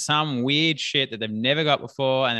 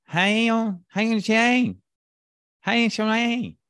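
much higher, put-on foreign voice; fake foreign language; 10 semitones higher, much slower than usual. Pretending not to speak English to a charity mugger, high put-on babble. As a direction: play a stranger babbling a made-up language. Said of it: "pretend I didn't speak English".

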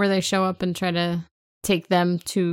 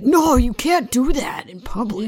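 mock scolding; 8 semitones higher, 7 dB louder than usual. Beckett scolding her magic.

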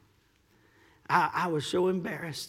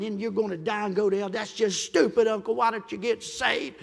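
exasperated pleading; 3 semitones higher, 3 dB louder than usual. Retold or imitated. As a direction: press a stubborn relative, rising in pitch. Acted blunt plea to dying uncle.

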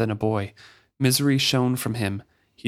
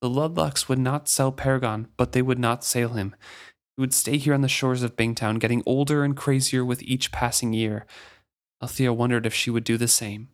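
measured audiobook reading; story narration. A narrator's reading. Podcast host reading a book passage aloud, even narration. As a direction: read it like a novel to listeners.

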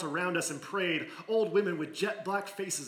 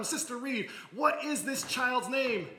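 higher, slow, kindly preacher question; minister asking; 7 semitones higher than usual. Acted. Minister asking the aunt the child's name, slow and higher. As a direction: ask it slowly, high, like the minister.

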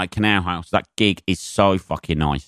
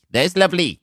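a deliberately terrible Welsh lilt, pitched up; bad Welsh accent; 9 semitones higher than usual. Shown as a demonstration. Shaky Welsh accent after mentioning a gig in Swansea. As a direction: ham up a cheesy Welsh accent. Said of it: "that is the worst Welsh accent".

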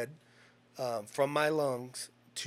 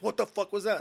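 raised, startled what the fuck; shocked friend; 7 semitones higher, 4 dB louder than usual. Retold or imitated. Friend hearing the shoulder pop, startled.

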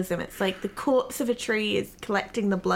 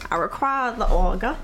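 imitating Drew; 3 dB louder than usual. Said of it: "Is that what I sound like".

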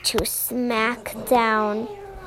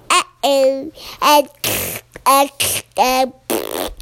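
put-on baby voice; slower than usual. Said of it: "The baby's like".

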